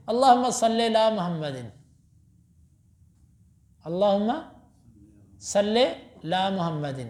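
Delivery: imitating the old man slurring علی محمد into لام محمد; mock mispronounced recitation; old man's garbled durood. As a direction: say "علی محمد" run together as "lam uhammad", the ع swallowed. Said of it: "وہ درود یوں پڑھتے تھے".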